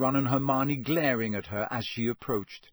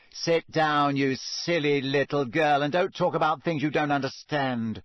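coldly; 3 semitones higher, 3 dB louder than usual. Acted. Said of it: "said Rita Skeeter coldly".

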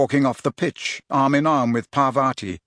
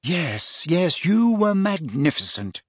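amused; 5 semitones higher, slower than usual. A narrator's reading. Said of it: "looking amused".

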